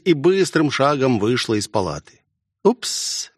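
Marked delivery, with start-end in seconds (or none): 2.6-3.3 high, breathy mocking giggle; nasty giggle. A narrator's reading. Jeff mocks Ichiro after the princess leaves, nasty giggle. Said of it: "мерзко хихикнула Джефф".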